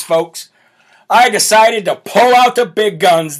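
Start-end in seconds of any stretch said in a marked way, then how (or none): 1.1-3.4 louder booming reveal of the big guns; dramatic announcement. Shown as a demonstration. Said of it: "so I decided to pull out the big guns".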